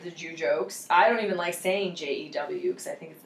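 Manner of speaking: hushed unvoiced whisper. Real, not acted. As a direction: whisper it, embarrassed. Whispering an awkward word.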